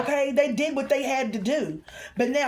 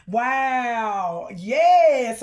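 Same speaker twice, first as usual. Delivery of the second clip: loud, drawn-out exclamation; real excitement; 5 dB louder than usual. Real, not acted. Reader feeling the song's energy, loudly excited. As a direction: cry it out, fired up. Fired up by the song.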